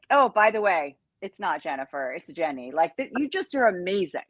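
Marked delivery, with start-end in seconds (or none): 0.1-2.7 confident. Retold or imitated. Woman imitating Scotty's passing correction of her name, offhand. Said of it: "This is his confidence".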